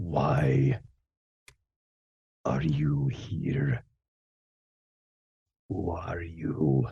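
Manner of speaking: low, stretched "why". A mysterious voice questions the newcomers, in a slightly deeper voice. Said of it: "kind of a tad bit on the deeper side".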